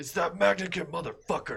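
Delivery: high shouted yell.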